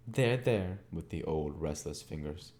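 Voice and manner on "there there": put-on impatient old lady. Miss Havisham dismisses thanks.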